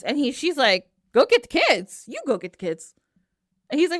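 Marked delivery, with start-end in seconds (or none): 1.1-2.0 higher, indignant repeat; incredulous echo. Acted. Medea echoes Jason's order to get the kids, incredulous. 2.1-2.9 lower, softer counter-order; firm retort. Acted. Medea tells Jason to do it himself, low retort.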